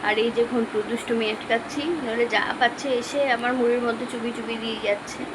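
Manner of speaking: talking while chewing; words around a bite of food; mouth full. Real, not acted. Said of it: "আমি খাচ্ছি এখন মুড়ি".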